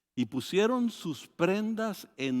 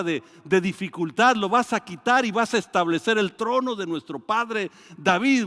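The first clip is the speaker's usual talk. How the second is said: loud, high, eager shouting of hope; jubilant crowd cry; 5 semitones higher, 6 dB louder than usual. Retold or imitated. Preacher voicing the crowd welcoming Jesus, loud and high. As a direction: cry out like a crowd hailing its king.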